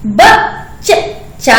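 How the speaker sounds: बच्चा spoken very slowly, half च held; slow demo. Shown as a demonstration. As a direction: draw out बच्चा so the half letter shows. (बच्चा बहुत धीरे बोलें)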